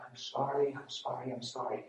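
quiet, understated retold sorry; retold soft apology. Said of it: "came running and found me saying".

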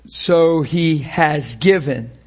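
slow, weighted "has given"; stress on HAS GIVEN. Shown as a demonstration. Preacher stresses a finished gift, "has given" spaced out slowly. Contrast of given against giving.

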